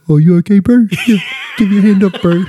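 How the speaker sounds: lightly voiced friendly big islander; easy-going bro, half laughing; Samoan player voice. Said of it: "they'll be like".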